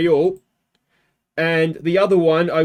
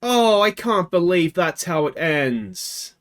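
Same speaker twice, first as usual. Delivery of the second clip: dejected; slower than usual. Real, not acted. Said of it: "I wanna cry".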